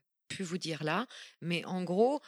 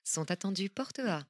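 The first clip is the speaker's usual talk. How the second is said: airport announcement; slower than usual. Shown as a demonstration. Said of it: "des voix d'aéroport".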